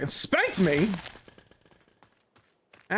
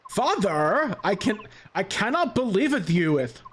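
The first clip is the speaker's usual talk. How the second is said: put-on valley girl; 3 semitones higher than usual. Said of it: "every time I do a girl voice, it's just a Valley Girl voice".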